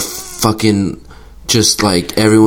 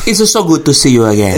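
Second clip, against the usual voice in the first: put-on British accent; 7 semitones higher than usual. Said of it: "do your southern one".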